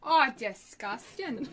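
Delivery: slow mock British "disgusting" through a laugh; laughing British accent. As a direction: repeat it British-style, laughing. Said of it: "that was definitely British".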